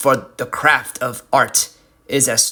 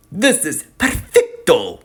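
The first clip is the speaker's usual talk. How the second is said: pleased; 3 semitones higher than usual. Acted. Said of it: "sounding pleased with the work".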